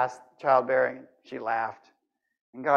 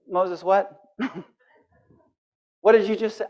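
amused disbelief; 3 semitones higher than usual. Pretend. God amused at Moses.

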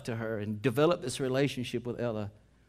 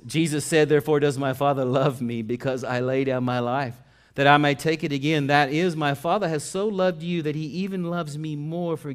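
raised, emphatic pulpit reading; forceful scripture preaching; 5 semitones higher, 10 dB louder than usual. Real, not acted. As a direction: proclaim the verse with rising energy.

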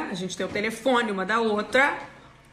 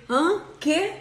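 higher-pitched, sleepy "what?"; groggy confusion; 5 semitones higher than usual. Retold or imitated. Woken by a London interview call, groggy and confused. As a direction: react dazed, pitch jumping up. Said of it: "eu tonta ainda de sono".

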